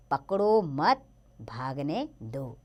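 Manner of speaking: पकड़ो, मत, भागने, दो spaced out slowly; slow, split phrasing. Shown as a demonstration. Teacher reads example sentence to pupils, slow, spaced-out phrasing. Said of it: "विराम चिन्हों से कितना अंतर आ गया".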